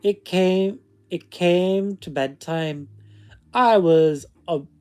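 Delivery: storytelling in a put-on Scottish accent; fake Scottish accent. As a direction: read it aloud with a mock Scottish lilt. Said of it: "read it in the accent".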